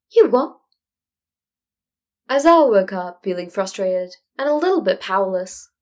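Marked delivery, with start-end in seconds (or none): 0.1-0.6 louder, higher blurt of shock; startled disbelief. Acted. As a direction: caught completely off guard. Stunned reply to time loop.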